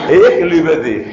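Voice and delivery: Ich liebe dich with hissed German CH; German pronunciation. Shown as a demonstration. Preacher joking about tender German, Ich liebe dich with German CH. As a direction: say Ich liebe dich as "ikh lee-beh dikh". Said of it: "suave y amoroso".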